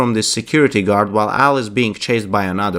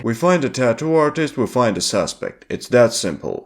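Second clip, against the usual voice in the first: mocking repeat. Agent mocking old man's words.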